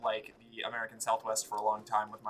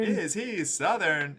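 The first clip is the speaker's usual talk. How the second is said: slow, drawn-out question; slow repeat; 6 semitones higher, 3 dB louder, slower than usual. Pretend. Echoing the friend, slow and drawn out. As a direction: drag the question out slowly. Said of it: "repeats the friend's echo".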